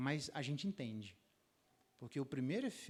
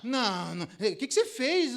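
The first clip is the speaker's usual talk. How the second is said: much higher, louder insistence; hammed-up husband demanding; mock demanding husband; 8 semitones higher, 12 dB louder than usual. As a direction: press her to confess.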